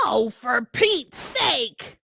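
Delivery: slow, exasperated pigeon; fed-up pigeon. Acted. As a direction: groan at the duckling.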